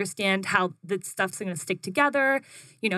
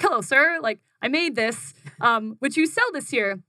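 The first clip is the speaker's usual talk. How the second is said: high, overly polite greeting; polite nervous pitch; 5 semitones higher than usual. Retold or imitated. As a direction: pitch it sweetly to a stranger. Pitching to a barista.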